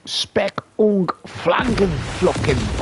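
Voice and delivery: slow, secretive fake German whisper; whispered mock German. Gamer sneaking up on a German, whispered mock German gibberish.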